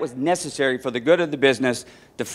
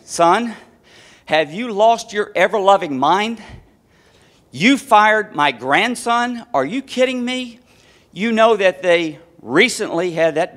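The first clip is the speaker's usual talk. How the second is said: higher pitched, indignant scolding; upset mother; 3 semitones higher than usual. Retold or imitated. Mother scolding her son over the phone, higher and indignant. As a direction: wail at him like a mother betrayed.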